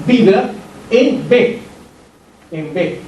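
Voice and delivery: B with the vocal cords buzzing first; B sonora, con vibración; voiced B. Shown as a demonstration. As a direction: hum briefly before releasing B. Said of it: "vibración de la cuerda vocal".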